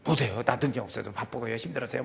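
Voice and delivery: soft, low excuse-making; smooth, understated excuses; polite refusal. Acted. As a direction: decline gently so nobody is offended. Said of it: "기분 나쁘지 않게 세련되게".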